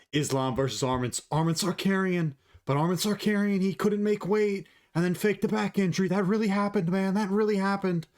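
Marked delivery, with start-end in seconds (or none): 1.3-8.1 high-pitched impersonation of a fight talker; Chael Sonnen. Acted. Fight fan mimicking a fighter's trash talk, high put-on voice. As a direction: put on a higher voice, insisting on every claim. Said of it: "that's my Chael Sonnen impression".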